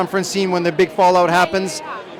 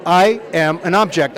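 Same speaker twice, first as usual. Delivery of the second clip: slow, louder deadpan; slow John impression; 3 dB louder, slower than usual. John repeats to the director, slower and louder. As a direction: repeat it gravely and slowly. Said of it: "And he's like".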